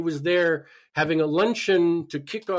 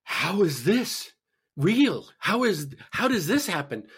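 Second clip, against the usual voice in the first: incredulous; 4 semitones higher, slower than usual. Retold or imitated. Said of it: "I'm going".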